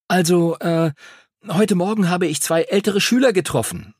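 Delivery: nervous pupil with faltering pauses; stammering. A narrator's reading. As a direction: feel your way haltingly into a confession. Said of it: "stammelte er".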